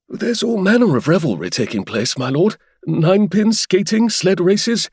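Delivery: put-on a young butler gushing about the fair; eager young butler. Narrator voices the excited butler.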